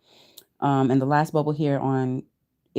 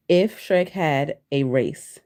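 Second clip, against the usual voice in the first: slow read-out; 3 semitones lower, slower than usual. Shown as a demonstration. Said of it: "Those are the exact words used for the search".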